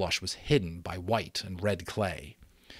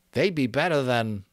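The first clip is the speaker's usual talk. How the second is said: put-on higher, cut-off boy's voice; hesitant Eric; 5 semitones higher, 5 dB louder than usual. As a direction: stop short afraid to name them. Eric hesitates to name them.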